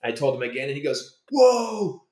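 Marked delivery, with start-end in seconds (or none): 1.3-2.0 imitated awestruck star, high and drawn out; mock starstruck astonishment, loud at the top; amazed reaction. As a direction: gush in a raised voice, stretching the words. Retelling star's delighted reaction.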